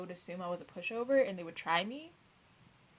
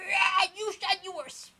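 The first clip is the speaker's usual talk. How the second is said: high, crying-like whiny voice; mock teacher; 11 semitones higher, 4 dB louder than usual. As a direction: whine like him. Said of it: "he would, like".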